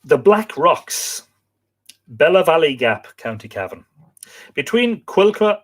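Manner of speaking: storytelling read with lifted phrase openings; reading aloud. Acted. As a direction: read out a local legend, phrase by phrase. Reads next account aloud.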